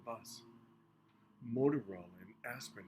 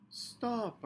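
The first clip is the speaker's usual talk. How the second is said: calling out; 11 semitones higher than usual. A narrator's reading. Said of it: "I cried".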